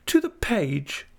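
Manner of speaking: high, slow tearful wail; sobbing wife. A narrator's reading. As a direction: wail it like a wronged young wife. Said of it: "sobbed Dora".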